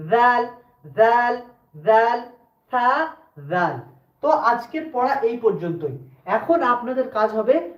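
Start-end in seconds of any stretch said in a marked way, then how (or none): 0.1-3.8 "জাল" with a voiced th, tongue tip on the teeth; Arabic letter demo. Shown as a demonstration. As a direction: repeat "জাল" as separate drawn syllables, lisped like "সা". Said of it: "একই রকম উচ্চারণ হয়".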